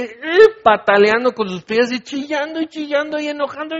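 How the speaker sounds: high, excited telling of the tantrum; building excitement. Acted. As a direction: paint the kicking, screaming baby vividly. Describing baby's tantrum.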